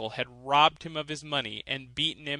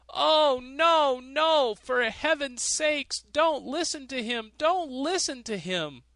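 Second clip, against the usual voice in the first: much higher, louder frantic protest; miser crying out; 11 semitones higher, 5 dB louder than usual. A narrator's reading. Miser begging the judge not to let him play, much higher and frantic. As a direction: shriek in panic at the judge. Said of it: "The miser cried out".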